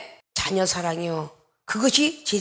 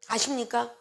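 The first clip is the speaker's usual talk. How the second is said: ordinary talk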